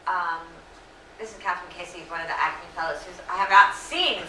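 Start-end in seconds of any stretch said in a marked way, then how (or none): 1.2-4.2 lost voice, hoarse and strained. Real, not acted. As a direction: speak through a worn-out hoarse voice. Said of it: "that's why I've lost my voice".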